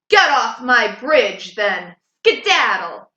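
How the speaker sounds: loud troll ordering him off; gruff troll yelling from the bridge; troll shouting. Acted. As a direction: bark the goat off the bridge. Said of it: "he shouted".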